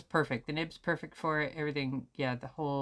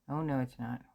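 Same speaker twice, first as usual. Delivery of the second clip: ordinary talk, nothing marked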